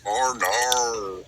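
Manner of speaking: drawn-out mock-Australian "Oh, no"; imitated Australian accent. Husband and wife's running joke, imitated Australian accent. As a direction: mimic an Aussie "Oh, no" as "ar nar". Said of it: "look at each other around the house and we go".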